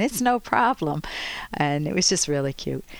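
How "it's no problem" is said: put-on higher, lightly Viennese-accented reassurance; breezy Viennese-accent imitation. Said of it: "He said this in a Viennese accent".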